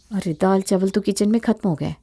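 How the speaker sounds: ordinary talk, nothing marked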